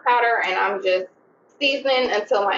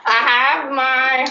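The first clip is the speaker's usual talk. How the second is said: laughing; 3 semitones higher, slower than usual. Real, not acted. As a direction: laugh it off mid-sentence. Laughing at roach killers joke.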